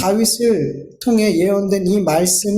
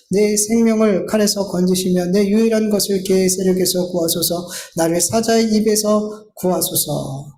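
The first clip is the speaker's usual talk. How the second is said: measured, slightly lowered psalm reading; scripture reading; 3 semitones lower than usual. Acted. Preacher reads David's plea to the congregation, measured scripture reading. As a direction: read it out as a solemn petition.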